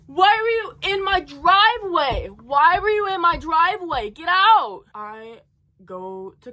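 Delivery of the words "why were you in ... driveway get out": high-pitched, exasperated wail; reenacted angry outburst. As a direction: re-enact a crash out, pitch swooping up high. Reenacts crash out at workers.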